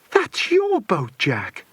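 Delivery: high, slow, thrilled shout; excited cry. Acted. Philip to Jack, spotting his boat on the map, excited high cry. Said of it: "cried Philip excitedly".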